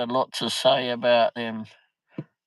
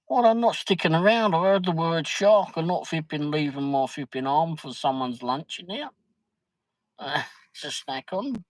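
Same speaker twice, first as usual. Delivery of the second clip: retold refusal; 5 semitones higher than usual. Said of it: "turn around and say".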